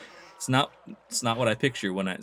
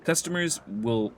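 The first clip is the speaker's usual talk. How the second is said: measured, theatrical telling of town intrigue; game informant; 3 dB louder than usual. Acted. Informant tells player of Galvina's feud, theatrical storytelling. Reads game character's dialogue aloud.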